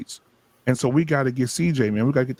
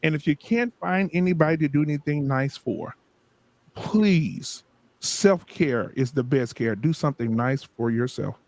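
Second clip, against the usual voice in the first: preacher voice. Acted. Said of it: "Go back to my preacher voice".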